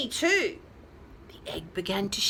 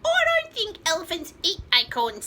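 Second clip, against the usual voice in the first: rooster voice; 8 semitones higher, 3 dB louder than usual. Acted. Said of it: "said the rooster".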